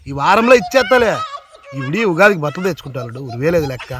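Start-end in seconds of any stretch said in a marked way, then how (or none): 0.1-1.1 loud reassurance. Acted. Uncle shouts to deaf nephew.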